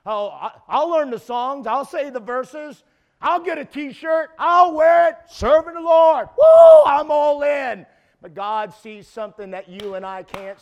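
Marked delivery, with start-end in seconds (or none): 0.0-7.8 higher, louder hammed-up hype, building to shouts; teen hyped for camp, hammed-up and loud; mock camp excitement. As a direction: play the shallow eager camper. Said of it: "how many have been like".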